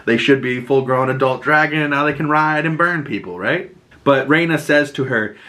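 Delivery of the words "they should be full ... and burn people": excited realization. Retold or imitated. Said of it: "I was like".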